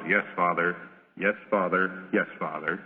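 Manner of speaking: lightly voiced obsequious yes-man; dutiful bowing son. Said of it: "as he bows".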